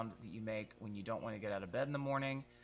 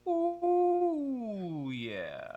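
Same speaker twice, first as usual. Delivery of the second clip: high curled-tongue ooh sliding down; high ooh, fry yeah; 10 semitones higher than usual. Shown as a demonstration. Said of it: "Now you're getting there".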